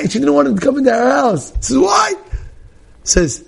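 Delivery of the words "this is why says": normal talking voice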